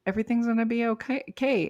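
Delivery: soothing self-reassurance. Acted. Comforting herself after something went badly, soothing and reassuring. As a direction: lightly comfort yourself, voice lifted. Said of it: "and soothe myself".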